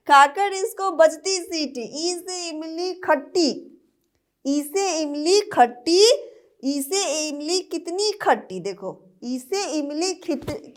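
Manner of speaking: sing-song nursery rhyme; poem recital. Acted. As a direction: recite the rhyme for small kids. (बच्चों के लिए लय में कविता)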